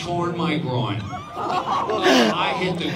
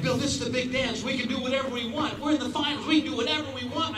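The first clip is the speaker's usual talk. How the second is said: giddy excitement; 7 semitones higher, faster than usual. Retold or imitated. Excited partner Emma voiced.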